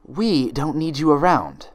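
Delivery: a hint of a cold posh mare; haughty Rarity. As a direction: dismiss her coldly. Rarity added.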